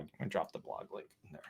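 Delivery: strained through a back spasm; wincing mid-sentence from pain. Real, not acted. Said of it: "Apologies, back spasm".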